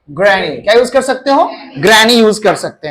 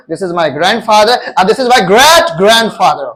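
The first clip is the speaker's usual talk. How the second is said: slow model sentence; much slower than usual. Shown as a demonstration. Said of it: "teacher models example sentence slowly".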